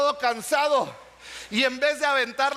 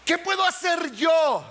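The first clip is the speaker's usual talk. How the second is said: urgent shout; 3 semitones higher than usual. Real, not acted. Preacher urging the congregation.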